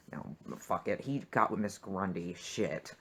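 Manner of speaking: soft, low under-the-breath aside; quiet grumbled aside; muttered aside. Real, not acted. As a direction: mutter it to yourself.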